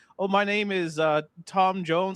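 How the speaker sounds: put-on thick Hindi accent, spoken slowly. Retelling a customer service worker giving a fake name, imitating heavy Hindi accent. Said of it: "with a heavy, heavy Hindi accent saying like".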